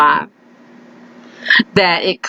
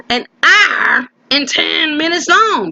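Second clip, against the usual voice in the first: mock disbelief; 5 semitones higher, slower than usual. Repeats length in mock shock.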